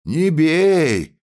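high, loud plea to stop; a man in the crowd shouts at the constable to stop. A narrator's reading. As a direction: yell it out of the crowd. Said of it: "крикнул кто-то в толпе".

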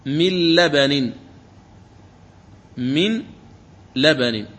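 من لبن with nun dropped, doubled lam; merged nun into lam. Shown as a demonstration. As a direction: say من لبن as mil-laban, no n. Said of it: "تقرأ اللام المشددة فتقول مل".

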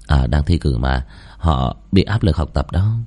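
low, casual excuse; lightly voiced unruffled young man; calm student covering up. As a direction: brush the question off in a low voice.

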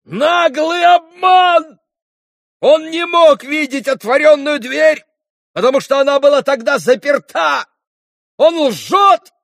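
accused man shrieking his innocence; furious yelling. A narrator's reading. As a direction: scream down the lie. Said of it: "завопил он вдруг".

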